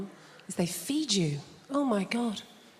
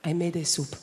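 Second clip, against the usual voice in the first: put-on mum's Spanish accent; 4 semitones lower than usual. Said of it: "conversation always goes like this".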